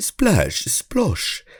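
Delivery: put-on British accent, pitched very high. Trying out made-up words in a British accent. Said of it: "maybe in a British accent".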